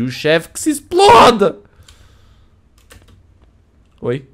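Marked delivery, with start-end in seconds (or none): 0.0-1.6 loud slow outburst; shouted. Acted. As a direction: yell it out, drawn out. Ranting about the boss.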